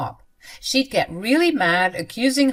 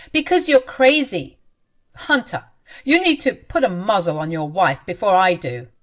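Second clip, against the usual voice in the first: angry outburst; 5 dB louder than usual. Acted. Quarrel with mother-in-law.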